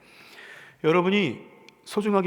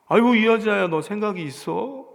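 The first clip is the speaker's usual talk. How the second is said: loud, higher scolding cry; exasperated disciple; 4 semitones higher, 5 dB louder than usual. Retold or imitated. Disciples scolding the woman who poured perfume, exasperated. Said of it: "이런 얘기입니다".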